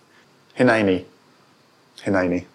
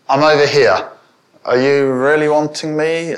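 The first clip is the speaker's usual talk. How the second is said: reluctant response; 4 semitones higher, 4 dB louder than usual. Acted. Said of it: "You get those sense of responses".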